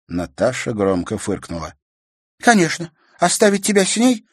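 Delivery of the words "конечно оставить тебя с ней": much higher scoffing question; mocking. A narrator's reading. Sister mocking brother's crush, scoffing. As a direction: needle him about her.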